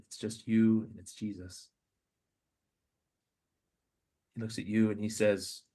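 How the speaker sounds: prayerful meditation over a podcast; guided meditation. Acted. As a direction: lead them gently into the scene. Leads a guided imagination prayer.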